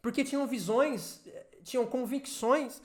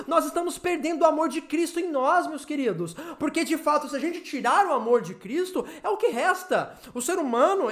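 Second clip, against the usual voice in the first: urgent, pleading sermon delivery; impassioned preaching; 3 semitones higher than usual. Real, not acted. Preacher warns believers they are losing Christ's love, impassioned preaching. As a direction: confront the congregation with insistent force.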